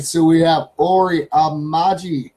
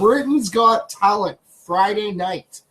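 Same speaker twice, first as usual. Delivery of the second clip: drawn out, slow and higher, like a talent show host; dramatic TV announcer; 3 semitones higher, slower than usual. Shown as a demonstration. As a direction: stretch "Britain's Got Talent" out grandly, pitched up. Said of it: "when we say".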